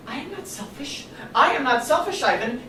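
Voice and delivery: high, emphatic rebuttal; indignant denial. Acted. Mother answering her son's charge of selfishness, indignant. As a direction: protest the accusation, stung.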